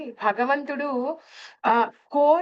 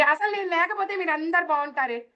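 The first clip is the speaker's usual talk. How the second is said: higher, mock self-pitying lament; self-pitying complaint; 6 semitones higher than usual. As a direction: play the martyred elder who feels unwanted. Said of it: "విచక్షణ రహితమైన డైలాగులు అండి ఇవి". (ఎక్కువ స్వరంలో బాధపడే నటన)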